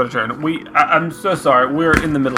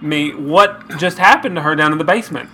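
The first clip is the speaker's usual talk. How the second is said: put-on fussy old lady voice; 2 semitones higher than usual. Sketch, fussy old lady character.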